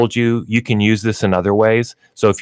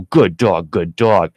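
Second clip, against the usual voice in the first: comforting voice; 3 semitones lower, slower than usual. Shown as a demonstration. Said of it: "and you go".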